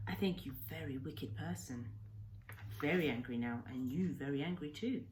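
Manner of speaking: lightly voiced old man in broken English, grave and sorrowful; a hint of an old Japanese hermit telling his grief; Kensuke's voice. Old islander recounts his story.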